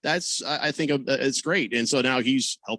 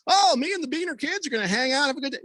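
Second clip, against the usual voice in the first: sarcastic; 12 semitones higher, faster than usual. Retold or imitated. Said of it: "like, sarcastically".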